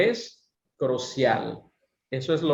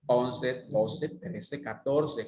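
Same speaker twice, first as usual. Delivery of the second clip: tune 1; 3 semitones lower, 4 dB quieter, slower than usual. Shown as a demonstration. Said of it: "vamos a contar los números de esta forma".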